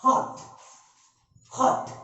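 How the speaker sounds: हॉट as one short unbroken beat. Shown as a demonstration. Teacher showing students one syllable, said in one go. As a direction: say हॉट in a single push, no break. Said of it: "एक बार में हम लोगों ने बोला".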